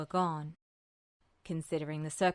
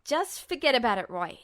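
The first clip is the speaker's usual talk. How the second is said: put-on higher, louder defensive young guy; young man voice; 6 semitones higher, 7 dB louder than usual. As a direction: brush it off, loud and forced casual. Ed deflects Roy's concern.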